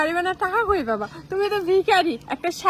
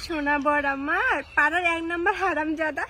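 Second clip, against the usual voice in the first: mock endearment. Wife to her darling husband, mock endearment.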